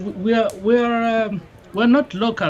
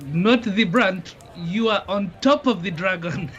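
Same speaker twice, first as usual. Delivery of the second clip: disapproving; 3 semitones higher, slower than usual. Acted. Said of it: "disapprovingly to say".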